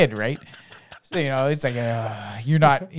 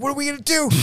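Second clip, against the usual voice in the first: put-on high, small child voice asking eagerly; little kid voice; 14 semitones higher, much faster than usual. Dad voicing his son asking what they'll do. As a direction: play the son, pitched up and curious.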